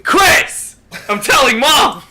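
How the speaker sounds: put-on high, loud whiny kid; whiny tattling little sibling.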